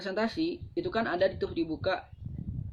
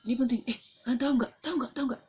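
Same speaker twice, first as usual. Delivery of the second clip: higher, punchier questions; rising emphasis; 6 semitones higher, much faster than usual. Shown as a demonstration. Presenter grabbing attention with higher questions. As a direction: build up with higher teasing questions. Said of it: "awalnya kita kuat suaranya".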